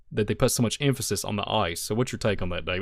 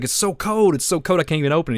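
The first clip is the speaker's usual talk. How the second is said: Doc freezing; 5 semitones higher, faster than usual. Retold or imitated. Host imitating Doc at the frozen DeLorean, higher mock complaint. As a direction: play Doc griping about the icy car. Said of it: "He's like".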